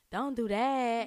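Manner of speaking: a hint of a rapper's style. Shown as a demonstration. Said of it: "in my rapper voice".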